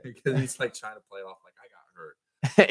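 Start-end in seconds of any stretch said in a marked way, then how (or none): 1.6-2.7 louder, very slow mock complaint; mock whiny claim. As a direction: whine it, playing it off. Mocking Marv playing it off.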